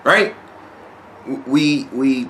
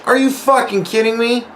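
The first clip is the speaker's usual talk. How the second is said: much higher, indignant disbelief; incredulous outburst; 9 semitones higher than usual. Retold or imitated. Player challenging another at the city meeting, incredulous. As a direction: retell your own outraged challenge.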